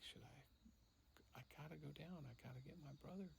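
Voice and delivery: soft, nervous near-whisper; quiet, hesitant resolve under the breath; hushed self-talk. Retold or imitated. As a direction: mutter it to yourself, torn. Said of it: "I'm like".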